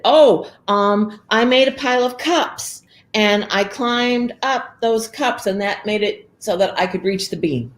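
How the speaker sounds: put-on high nervous girl; little girl voice. Girl lies again.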